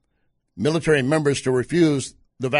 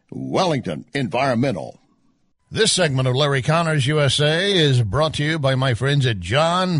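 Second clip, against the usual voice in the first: radio ad read. Acted. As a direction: sell it like a radio host. Host reads sponsor ads.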